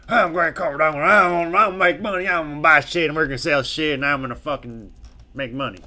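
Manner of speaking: over-the-top money-guru impression; Grant Cardone voice. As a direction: shout it like a pushy motivational salesman. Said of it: "He has, like, this funny voice".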